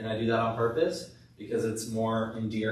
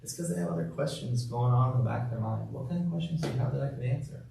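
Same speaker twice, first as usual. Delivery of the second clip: empathetic reply; faster than usual. Shown as a demonstration. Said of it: "one way of handling it".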